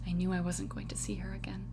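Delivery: fast, breathless whisper of regret; hushed whisper. Acted. Telling John of losing her, whispered. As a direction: whisper it like a secret you can't take back.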